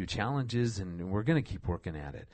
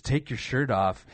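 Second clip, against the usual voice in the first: laughing quote; 6 dB louder than usual. Retold or imitated. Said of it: "She goes".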